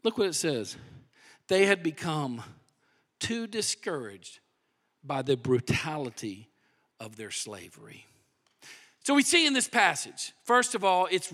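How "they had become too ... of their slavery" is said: soft sorrowful reading. A narrator's reading. Reading grim verse softly.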